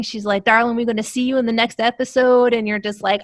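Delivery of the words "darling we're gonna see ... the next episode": put-on fast, lightly Southern reassurance to a young actor; light Southern twang. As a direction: lightly imitate a Southern lady. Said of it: "she's got that natural Southern twang".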